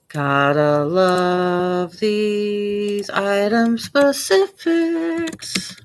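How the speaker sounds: very slow sarcastic "gotta love" that rises at the end; sarcastic drawl. Real, not acted. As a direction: drag it out, dripping with sarcasm. Sarcastic complaint about listing fields.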